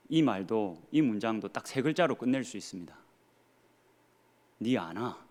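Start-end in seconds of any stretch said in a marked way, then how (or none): none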